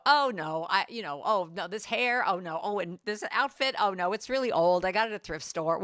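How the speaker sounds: hammed-up flustered deflection, waving the praise away; imitating someone embarrassed by a compliment; mock self-deprecation. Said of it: "someone give us a compliment and go".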